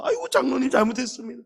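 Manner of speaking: high, quick, pleading sorry; pleading apology. Retold or imitated. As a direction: beg forgiveness quickly, in a high voice. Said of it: "호통을 치면요". (높고 빠르게 애원하는 사과)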